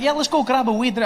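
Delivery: lightly mimicked Scottish invite; light Scottish Mick. Mick invites Trevor for a drink, light Scottish voice.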